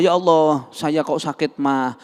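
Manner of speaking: keluhan doa orang sakit, agak keras; sick person's prayer. Shown as a demonstration. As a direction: mengadu kepada Allah dengan memelas. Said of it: "jangan, minta sama Allah". (contoh doa orang sakit kepada Allah)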